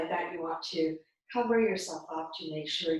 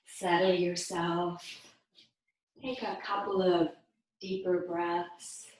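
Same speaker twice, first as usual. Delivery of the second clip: guided meditation. Real, not acted. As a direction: lead them gently, with long pauses. Guiding listeners into breathing practice.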